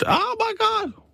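very high mock-distressed cry; panicked wife. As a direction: imitate a wife calling for resuscitation. Acting out wife at husband's death.

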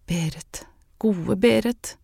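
a lightly lifted cry of Berit; mild exclamation. A narrator's reading. Woman exclaims to her absent mentor, mildly. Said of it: "utbrøt hun".

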